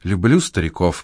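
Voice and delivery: plain reading voice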